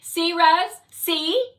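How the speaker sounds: high, loud, insistent drone; loud I-told-you-so. Acted. Fly shows Rez Courage won't talk, high and loud. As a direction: press the point triumphantly.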